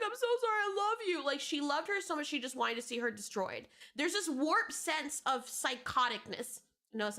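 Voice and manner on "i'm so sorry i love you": higher, syrupy fake-sweet apology; imitating a false friend gushing; mock sweet apology. Mocking a fake friend who says she loves her, fake-sweet.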